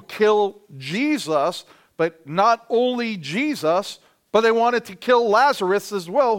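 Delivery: building emphasis. Real, not acted.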